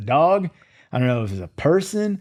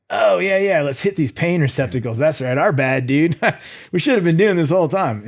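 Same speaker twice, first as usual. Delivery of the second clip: mock inner voice; 4 semitones higher than usual. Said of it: "my mind was like".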